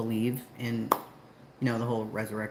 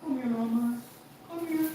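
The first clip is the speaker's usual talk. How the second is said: high pet-calling voice; high-pitched coaxing; coaxing a dog; 11 semitones higher than usual. Real, not acted. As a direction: call the dog over in a high voice.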